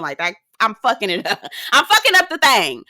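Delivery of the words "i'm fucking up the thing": laughing, higher-pitched admission; real amused outburst; amused self-mockery. Real, not acted. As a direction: laugh at your own blunder. Laughs at own mispronunciation.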